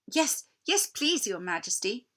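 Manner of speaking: eager, a touch of chattering teeth; eager cold boy. Acted. Freezing Edmund eagerly accepts the queen's drink, mildly shivering. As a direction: blurt it out, shivering. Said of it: "whose teeth were chattering".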